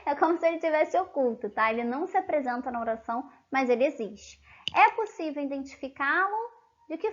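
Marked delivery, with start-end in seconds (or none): 0.0-1.5 laughing. Real, not acted.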